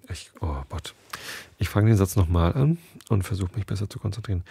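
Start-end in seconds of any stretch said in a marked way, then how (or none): 0.1-0.9 breathy whispered oh god to herself; whispered aside. Real, not acted. Reader annoyed at her own slip, whispering.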